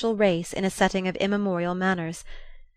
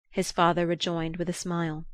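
ordinary delivery

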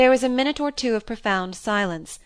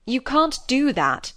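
ungraciously; 5 semitones higher, 3 dB louder, slower than usual. A narrator's reading. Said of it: "still ungraciously".

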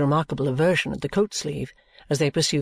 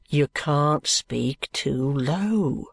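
slow warning; much slower than usual. Acted. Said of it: "says Tony once more".

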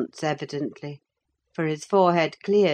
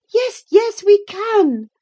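very high, loud, pleading reply; eager young girl; 9 dB louder, slower than usual. A narrator's reading. Cathy begging Ellen to stay, high and loud. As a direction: beg to stay. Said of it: "replied Cathy".

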